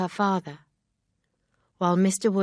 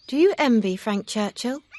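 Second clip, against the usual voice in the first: higher, louder voice for a distressed Emma; Emma, upset young woman; 6 semitones higher, 6 dB louder than usual. A narrator's reading. Emma confessing her foolishness to Mister Knightley, higher and distressed.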